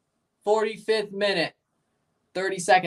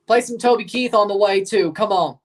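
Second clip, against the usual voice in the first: loud, eager request; excited call; 3 semitones higher, 5 dB louder than usual. Real, not acted. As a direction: call out for the song. Hyping a song request.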